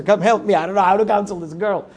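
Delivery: hammed-up cry for help; mock panicked plea. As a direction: beg for rescue, half in jest.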